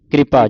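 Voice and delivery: ਕਿਰਪਾ with k and r run together; quick KR blend. Shown as a demonstration. Teacher tells students to say it quickly, ਕਿਰਪਾ as blended "kripa". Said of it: "ਜਲਦੀ ਦੇ ਨਾਲ".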